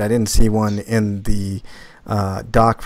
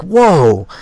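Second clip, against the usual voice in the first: loud high mock gasp of wonder; imitating her amazed whoa at a butterfly; 7 semitones higher, 6 dB louder than usual. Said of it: "she's like".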